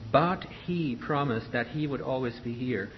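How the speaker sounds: "But he promised that he would always be here" in detached words; word-by-word staccato on "But he promised". Shown as a demonstration. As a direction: attack "But" and keep each following word separate. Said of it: "staccato than you, you, you would sing them normally".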